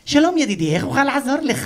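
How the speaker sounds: loud, over-friendly mimicked greeting; exaggeratedly nice. Pharmacy worker greeting a customer, exaggeratedly nice imitation. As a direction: greet with hammed-up helpfulness. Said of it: "הוא נחמד אליך בהגזמה".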